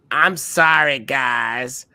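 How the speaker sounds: a hint of an old witch, slow and croaky; lightly voiced tired old witch. Old lady at Denny's whining in a witchy voice. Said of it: "Why did she sound like a witch?".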